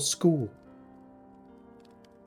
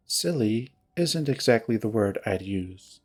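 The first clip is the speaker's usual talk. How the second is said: low, cool disapproval; 4 semitones lower, 4 dB quieter than usual. Acted. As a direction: lower retort, leaning on "isn't". Jenna coolly corrects Heather, second take.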